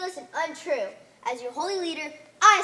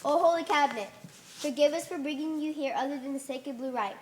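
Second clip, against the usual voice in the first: solemn prayer. Acted. Prayer to holy cabinet.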